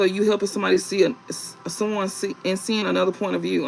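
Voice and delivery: stumbling over words with false starts; tongue-tied, restarting mid-phrase; stuttering. Real, not acted. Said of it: "I'm stuttering so hard".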